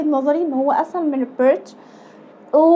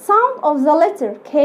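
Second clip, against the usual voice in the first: slow teaching phrase; much slower than usual. Shown as a demonstration. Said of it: "teacher slow demo".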